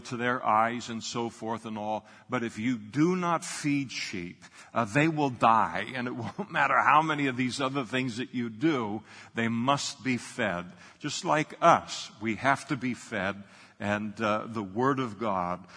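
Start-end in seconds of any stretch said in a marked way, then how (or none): 2.3-13.4 emphatic preaching. Real, not acted. Preacher warning the church that unfed sheep die, forceful. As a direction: press it home to the congregation.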